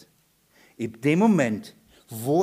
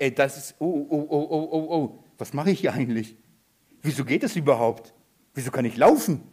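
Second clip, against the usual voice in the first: dawning doubt; 2 semitones lower than usual. Acted. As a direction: act out uneasy self-questioning, kept small. Petrus bekommt auf dem Wasser Zweifel. (leise gespielte Verunsicherung)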